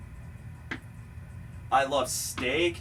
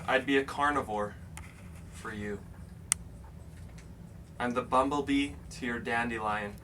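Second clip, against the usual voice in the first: solemn poem recital; 2 semitones lower than usual. Pretend. Reading his poem aloud to Jeff Goldblum, solemn recital. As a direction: recite it like a heartfelt tribute. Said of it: "It's called Goldblum's Tomb".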